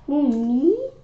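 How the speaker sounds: high, mock-innocent squeak; playing innocent. A narrator's reading. Boy denying the window prank, high and innocent. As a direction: act wide-eyed innocent.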